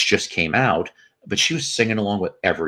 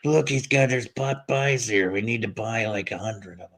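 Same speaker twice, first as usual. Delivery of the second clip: Cheech and Chong; 3 semitones higher than usual. Pretend. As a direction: play an awed stoner spotting treasure, trailing off. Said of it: "I can just imagine Cheech and Chong".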